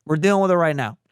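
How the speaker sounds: wife laying down the law, imitated; bossy. Wife on the table ordering the tech, bossy. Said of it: "like a boss, I hear her go".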